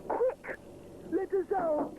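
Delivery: bang on the door and shout; urgent shout. Acted. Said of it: "shouts Edward".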